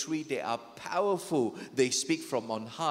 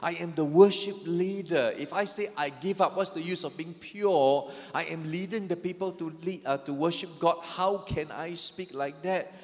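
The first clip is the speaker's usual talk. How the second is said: louder, preached protest; impassioned Asaph; 3 semitones higher, 4 dB louder than usual. Acted. Asaph protesting he cannot talk like that, louder and impassioned. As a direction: throw out his anguished refusal. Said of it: "Asaph is saying".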